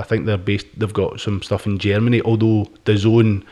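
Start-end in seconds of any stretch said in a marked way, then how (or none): 2.8-3.4 "dazone" said as da-ZONE; brand name pronunciation. Shown as a demonstration. Podcaster explaining where the company is based, "dazone" spoken as da-ZONE. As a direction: pronounce "dazone" slowly, rhyming with zone. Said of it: "as they're pronounced".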